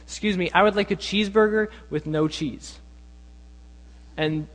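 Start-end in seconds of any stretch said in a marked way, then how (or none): 0.0-2.8 mildly imitated polite customer request. Friends prank a McDonald's cashier, very politely. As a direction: order with careful, mock courtesy. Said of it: "very politely say".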